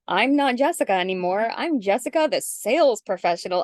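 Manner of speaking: mock sales persona. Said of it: "all of a sudden we turn into".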